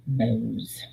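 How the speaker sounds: breathy whispered aside on "Bows.". Pretend. Telling viewers the trick about bows, whispered. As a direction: whisper "Bows." like a secret tip.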